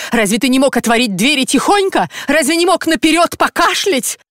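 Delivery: high-pitched scolding wife; angry wife. A narrator's reading. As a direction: nag him furiously from the floor. Wife scolds husband after injury. (жена бранит мужа, визгливо)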